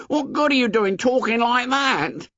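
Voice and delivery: high shrill reproach; shrill Piggy voice. A narrator's reading. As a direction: scold him, pitched high. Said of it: "said Piggy shrilly".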